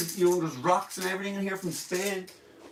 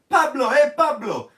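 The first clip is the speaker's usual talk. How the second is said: loud call, higher and louder; 7 semitones higher, 7 dB louder than usual. Pretend. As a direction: shout across the street to a friend. Calling out a friend.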